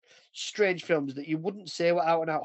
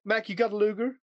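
higher-pitched mock Cockney soldier; butchered Cockney; 6 semitones higher than usual. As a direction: lightly imitate a Cockney asking a mate. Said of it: "butchering American and fucking Cockney".

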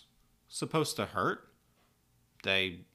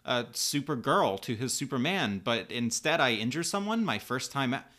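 higher, louder, pleading apology; apologizing profusely; 5 semitones higher, 5 dB louder than usual. A narrator's reading. Kara to Linda after hurting her, distraught apology. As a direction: apologize in an upset, earnest rush. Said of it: "Kara continues to apologize".

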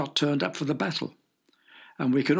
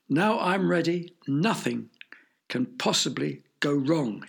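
triumphant. Acted. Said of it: "he cried triumphantly".

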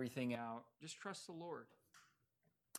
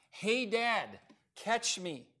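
put-on higher and louder, a boy's call from above; yelled call; 10 semitones higher, 6 dB louder, much slower than usual. A narrator's reading. Son on the cliff calls his dad, a bright yell. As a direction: call down from the rocks. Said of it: "I heard a voice from above me yell".

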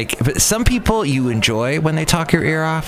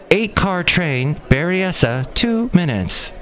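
slower, lighter take on the train announcement; train announcer voice; 6 semitones higher, slower than usual. Retold or imitated. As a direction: drawl the stop like the recorded voice. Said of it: "the electronic voice woman".

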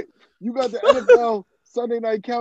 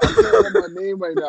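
much higher, fast squeaky take; high-pitched repeat; 13 semitones higher, faster than usual. Pretend. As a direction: pitch it way up and rush it.

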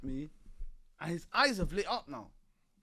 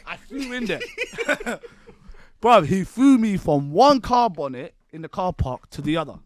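louder, laughing through the words; 12 dB louder than usual. Real, not acted. Telling his friend he was thrown across the car park, laughing loudly. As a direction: crack up at how far you flew.

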